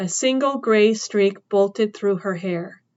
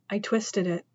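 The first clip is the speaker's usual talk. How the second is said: put-on pained boy; 7 dB quieter than usual. Boy in pain, cold.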